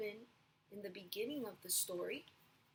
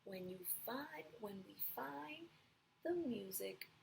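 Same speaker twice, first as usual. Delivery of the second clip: Gerald gently sharing his lesson; gentle, wise; 2 semitones lower than usual. Acted. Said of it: "he said".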